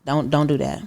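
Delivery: low, softened warning; quiet warning. Retold or imitated. Diner warning an over-familiar waiter, quietly firm. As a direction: warn him off under your voice.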